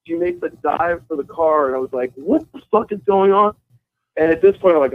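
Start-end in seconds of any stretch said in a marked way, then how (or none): 2.1-3.5 high-pitched, incredulous question; retold bewilderment. Driver watching her dive at his car, high bewildered question. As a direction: act out disbelief, pitch jumping up.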